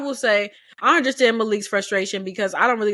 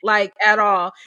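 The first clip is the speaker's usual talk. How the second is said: mild mock snapping. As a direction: snap back at him, half-acted. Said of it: "John Henry snapping at Malik".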